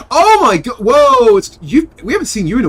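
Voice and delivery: high, loud startled whoa; surprised. Real, not acted. Greets old friend suddenly.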